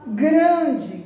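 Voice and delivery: teacher modelling the nasal sound; nasal demo. Shown as a demonstration. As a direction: sound out Grande so the nose hums. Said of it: "tá vibrando o nariz".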